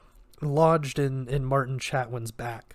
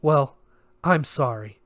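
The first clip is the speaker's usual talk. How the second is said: holding back a sob; 6 dB louder than usual. Acted. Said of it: "She bit back a sob".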